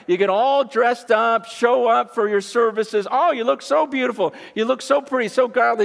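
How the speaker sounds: mock admiration. Jesus mocking the leaders' appearance.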